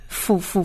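"复" as a short f-like sound, repeated; consonant sound demo. Shown as a demonstration. Teacher sounding out the second letter, isolated "复，复". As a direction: sound out "复，复" separately. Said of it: "复的音".

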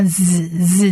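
z given as a bare consonant sound, repeated; letter-sound demo. Shown as a demonstration. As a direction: sound out z, z on its own for learners. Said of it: "它的发音是发z". (示范z的辅音发音，重复一次)

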